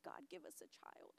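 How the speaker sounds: hushed re-enactment of praying in tears; tearful plea. Retold or imitated. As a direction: plead to God almost under your breath. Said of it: "And I just started crying".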